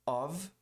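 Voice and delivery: Of said full, with a clear open vowel and a V sound; strong form of. Shown as a demonstration. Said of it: "Tem a forte e a fraca". (forma forte de Of)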